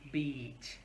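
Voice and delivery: "beach" with a long ee through a smile; long smiley vowel. Shown as a demonstration. Teacher models the word with smiley mouth, long vowel. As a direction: stretch "beach" with spread lips. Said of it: "make a little smiley face".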